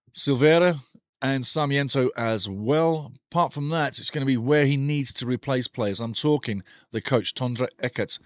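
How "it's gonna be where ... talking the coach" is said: ordinary delivery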